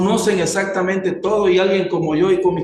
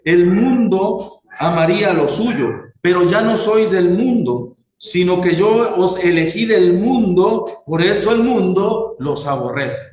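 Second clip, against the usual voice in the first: emphatic, deliberate Bible reading; verse read out with weight; scripture reading. Acted. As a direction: proclaim the verse to the congregation. Reads scripture aloud to congregation.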